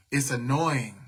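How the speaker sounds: breathy whisper under her breath; whispering to herself that it's annoying; whispered annoyance. Real, not acted. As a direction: let the irritation slip out in a whisper. Muttering her irritation to the live.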